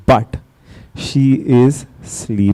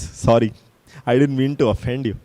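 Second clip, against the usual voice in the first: meek apology; 6 dB quieter than usual. Acted. Acted meek apology to mockers.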